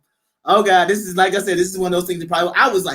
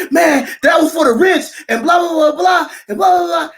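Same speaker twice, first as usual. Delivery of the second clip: higher, louder imitated critic; mock heated retort; 8 semitones higher, 4 dB louder than usual. Critic replying on Facebook, louder mock retort. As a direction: fire it back like a mocking critic.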